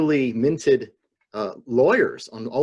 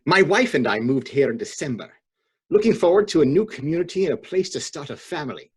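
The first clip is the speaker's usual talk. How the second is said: dramatic reading; 3 semitones higher than usual. Shown as a demonstration. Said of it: "dramatic reading".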